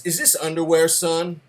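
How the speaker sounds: a hint of a stern military father. Father holding up the underwear to his son, mildly stern.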